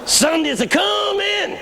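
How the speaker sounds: very high, slow triumphant proclamation; imitated pastor's refrain. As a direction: sing out the sermon refrain to the rafters. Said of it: "he preached one line over and over".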